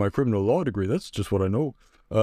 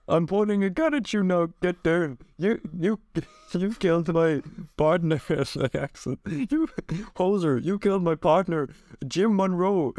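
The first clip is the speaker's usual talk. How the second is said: tag; 6 semitones higher than usual. Acted. Officer confronts partner's killer.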